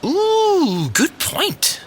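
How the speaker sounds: high delighted squeal on ooh; light up at the idea; a high thrilled ooh then good point. Acted. Delighted at tea cake.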